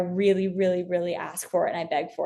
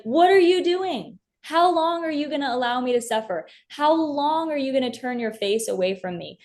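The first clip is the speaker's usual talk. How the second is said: David screaming at God; 5 semitones higher than usual. Retold or imitated. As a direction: cry out to God as if betrayed, voice raised high. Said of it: "I can see David screaming that from the top of his lungs".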